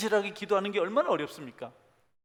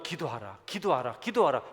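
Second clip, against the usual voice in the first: building command; 3 semitones lower than usual. Acted. Jesus' command repeated, building.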